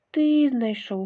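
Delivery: loud eager answer; loud shout. Acted. Mice answering the rooster, loud eager shout. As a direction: blurt it out loudly together. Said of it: "голосно закричали мишенята".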